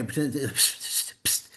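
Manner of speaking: soft unvoiced psst; sneaky whisper. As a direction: hiss for attention like a tempter.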